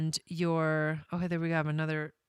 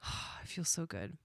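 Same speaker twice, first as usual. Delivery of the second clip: hushed, close to tears, much softer; overwhelmed, barely holding back tears; quiet emotional near-sob with a sigh; choked up; 2 semitones lower, 11 dB quieter than usual. Real, not acted. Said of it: "I'm gonna cry".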